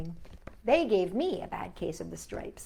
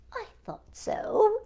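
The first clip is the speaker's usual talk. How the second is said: slow, high, smiling knowingness; old woman gently pleased with Camilla; said with a smile; 12 semitones higher, slower than usual. A narrator's reading. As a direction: let a smile through the words. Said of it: "the old woman said with a smile".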